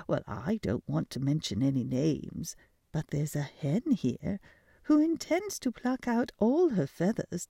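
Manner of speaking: a light gossipy hen voice; gossiping hen. Acted.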